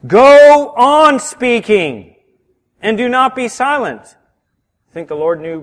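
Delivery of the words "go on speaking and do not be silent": slow, loud, higher proclaiming; drawn-out loud commanding voice; forceful command. Acted. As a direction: boom it out as God's word. Preacher voicing God's command.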